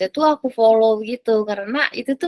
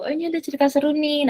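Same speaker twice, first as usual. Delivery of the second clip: quick, higher-pitched imitation of an eager reader; lightly acted excited tip-off; eager recommendation; 6 semitones higher, faster than usual. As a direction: pass on a tip to friends, quick and high. Voices reader recommending a story.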